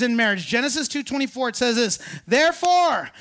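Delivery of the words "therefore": slow scripture read. Acted. Reading scripture slowly.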